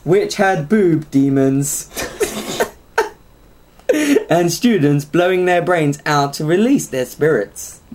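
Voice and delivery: slow, lightly robotic synthesiser-style voice; Stephen Hawking. Acted. Host reading absurd game review, slow mock computer voice. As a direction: read it slowly like a computer voice. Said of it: "I'm doing Stephen Hawkins now".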